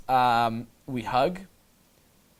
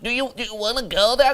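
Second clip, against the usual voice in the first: higher-pitched, tentative imitation of asking; mock hesitant asking; 7 semitones higher than usual. A guy timidly asking a girl to come along, mock hesitant. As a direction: stumble over the start like a timid mock request.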